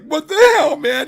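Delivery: high-pitched mock shout; imitated shocked outburst. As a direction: exclaim it in acted disbelief. Guy reacts to the sudden punch.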